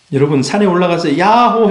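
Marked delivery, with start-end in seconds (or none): 1.2-1.7 mountain call. Shown as a demonstration. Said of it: "해보셨습니까".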